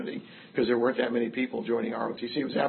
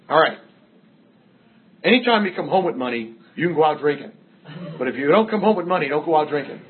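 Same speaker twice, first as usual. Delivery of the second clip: louder, higher stern ultimatum, half laughing by the end; wife's mock laying down the law; 3 semitones higher, 5 dB louder than usual. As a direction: play the wife setting terms. Wife laying down the rule.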